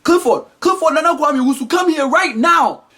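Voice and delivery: high-pitched call across the house; hammed-up parental holler; parent yelling. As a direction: summon the child by full name, urgently. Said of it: "they'll yell for you".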